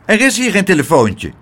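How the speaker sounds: high-pitched, emphatic denial; nervous little gatekeeper; nervy little doorman. A narrator's reading. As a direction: insist in a small high voice. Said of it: "was hij beverig van de zenuwen".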